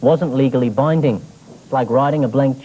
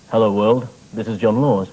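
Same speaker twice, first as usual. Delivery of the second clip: radio host voice; 7 semitones lower than usual. Retold or imitated. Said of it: "start the show with".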